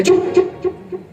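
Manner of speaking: breathless whispered hush, half laughing. Acted. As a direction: shush her urgently under your breath. Mother-in-law hushes her. (फुसफुसाकर चुप कराना)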